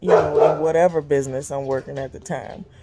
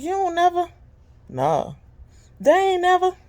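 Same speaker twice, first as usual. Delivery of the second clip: amazed question; 13 semitones higher, 5 dB louder than usual. Retold or imitated. Quizzing male drivers.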